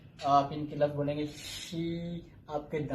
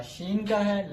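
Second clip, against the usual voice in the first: slow demo; 4 semitones higher, slower than usual. Shown as a demonstration. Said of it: "जैसे हमने पढ़ा था इसके अंदर साउंड".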